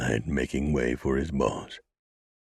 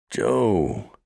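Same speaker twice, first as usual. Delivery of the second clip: yelling; 5 semitones higher, 4 dB louder than usual. A narrator's reading. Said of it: "the killer yelled".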